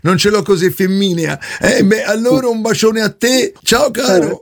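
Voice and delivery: fake woman's voice. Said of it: "la voce un po' bracuta".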